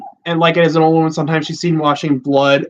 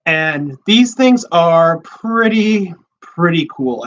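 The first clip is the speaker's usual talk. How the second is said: voice cracking; slower than usual. Real, not acted. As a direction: voice almost breaking on pretty. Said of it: "almost voice cracked there".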